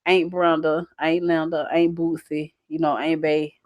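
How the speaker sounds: "Aunt" said like "ain't"; regional "aunt". Shown as a demonstration. Woman listing her aunts by name, "Aunt" said like "ain't". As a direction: say each "Aunt" to rhyme with "paint". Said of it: "I say".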